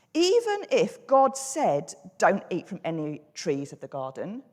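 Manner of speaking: stretched, weighty start sinking to a low, open end; tailing off. Acted. Snake tempting Eve with an unfinished sentence, tailing off. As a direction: stress "Even if God said", then let the rest tail off. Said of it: "then he sort of tails off".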